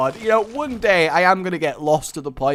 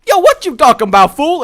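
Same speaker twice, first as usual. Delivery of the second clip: higher, loud, fast street-tough retort; forest person retort; 11 semitones higher, 12 dB louder, faster than usual. Retold or imitated. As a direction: snap back like a cocky local. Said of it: "they'll look at me like".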